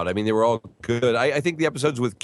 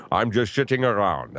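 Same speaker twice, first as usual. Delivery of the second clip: Sean Connery impression. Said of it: "Almost a little Sean Connery".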